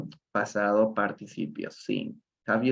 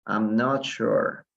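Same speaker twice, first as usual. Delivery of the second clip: each word slow and even, for the class; slow it right down so they can copy; teacher demo at half speed; slow model phrase; much slower than usual. Shown as a demonstration. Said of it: "Utilicen bastante esta, eh, esta frase".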